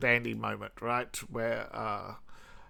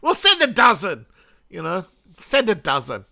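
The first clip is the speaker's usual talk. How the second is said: lightly voiced smug shrug; a touch higher and louder, smug offhand; mock casual Russia; 4 semitones higher, 4 dB louder than usual. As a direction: toss it off like a cheap bargain. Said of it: "Russia's going".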